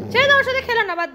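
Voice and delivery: high, loud teasing brush-off; playful high let-him-be; mock sulky dismissal. Real, not acted. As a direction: tease the sulking dog. Teasing that the dog sulks.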